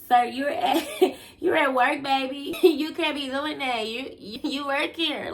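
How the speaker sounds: high, laughing retold scold; giggling mock reprimand. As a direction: tease him through laughter. Mocking man at work, laughing.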